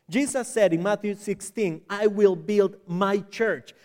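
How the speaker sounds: ordinary talk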